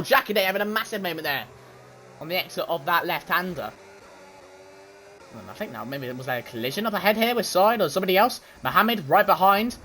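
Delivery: fast, lively play-by-play calling the race; race commentary. Acted. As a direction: call every overtake like a live broadcaster.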